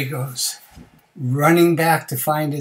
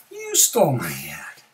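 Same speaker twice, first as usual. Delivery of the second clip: whispered accusing words; hushed accusation. Acted. Same accusation repeated hushed.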